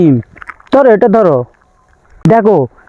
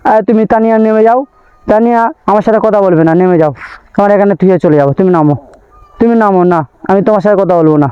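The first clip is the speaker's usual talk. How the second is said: lower, pretend-cross telling the child off; mock stern scolding; 3 semitones lower than usual. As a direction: play at being angry, not meaning it. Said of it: "আমি মিথ্যে মিথ্যে বলেছি". (শিশুকে মজা করে মিছিমিছি রাগ দেখানো)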